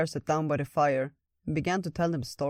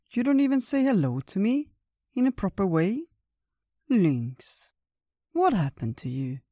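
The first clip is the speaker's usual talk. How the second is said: put-on reproachful old bear; 6 semitones higher, 5 dB louder than usual. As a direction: chide an old friend, starting high and loud.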